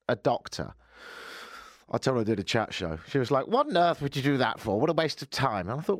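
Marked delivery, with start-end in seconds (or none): 3.5-5.7 scornful grandmother. Retold or imitated. Retelling grandmother's scornful reaction.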